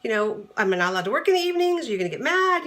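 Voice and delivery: defensive, indignant and quick, rising at the end; huffy. Retold or imitated. Wife getting huffy with her husband about working evenings, indignant and quick. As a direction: bristle like you're about to pick a fight. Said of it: "was gonna get all huffy and say".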